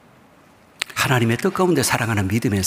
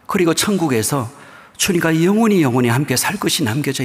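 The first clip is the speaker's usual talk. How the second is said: preaching at full force, louder and higher into heaven; rising preaching cry; 6 semitones higher, 5 dB louder than usual. Real, not acted. Preacher to congregation, heaven with the Lord, exultant louder and higher cry. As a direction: lift the voice higher and louder as the promise peaks.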